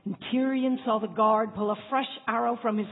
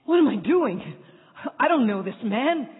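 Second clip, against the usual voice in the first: panicked; 4 semitones higher, 4 dB louder than usual. Acted. Panicked inner doubt.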